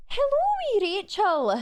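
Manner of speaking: very high, loud Scottish lady; hammed-up high Scottish greeting; Mrs Doubtfire. Streamer messaging Scottish manager, hammed-up Scottish falsetto. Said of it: "and Missus Doubtfire".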